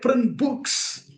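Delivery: "Print books" said firm and plain; firm command. Retold or imitated. A preacher quoting his teacher's firm instruction. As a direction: state it as a clear order. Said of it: "Prabhupada said".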